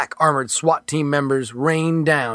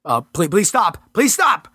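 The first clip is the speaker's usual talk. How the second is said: pleading shout; 5 semitones higher than usual. Acted. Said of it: "shouted Mitchell".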